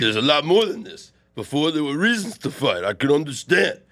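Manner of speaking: Rocky. Acted. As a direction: push it as Rocky. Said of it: "you have the better Rocky".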